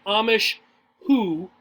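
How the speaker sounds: "Amish who" split slow, each word apart; the wrong, slow way; deliberately slow "Amish... who"; said too slowly. Shown as a demonstration. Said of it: "Don't say".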